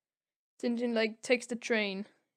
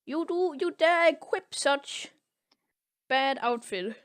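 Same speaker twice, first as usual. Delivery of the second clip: a hammed-up scolding officer, higher and louder; mock angry officer; 5 semitones higher, 3 dB louder than usual. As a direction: play the pompous officer shouting at the fool. Officer scolding Tintin, acted.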